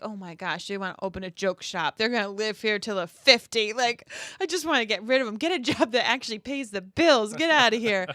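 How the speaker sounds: a fed-up mother building to a mock yell; exasperated mom. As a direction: rant like a mom done with her kids. Mom voiced ranting about sons.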